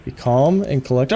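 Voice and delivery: low, self-soothing composure; calming oneself. Real, not acted. Gamer talking themselves down from excitement, calm and collected. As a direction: rein the excitement back in. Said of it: "Okay, calm down".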